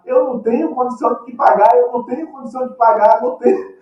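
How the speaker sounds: high, pleading cry, lightly acted; mock crying plea. Debtor crying out to his creditor, high mock plea. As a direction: cry out that you cannot pay. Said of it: "a chorar, a gritar".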